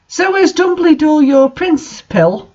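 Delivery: hammed-up excited shout; mock shout. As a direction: yell the question across the room. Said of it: "I shouted".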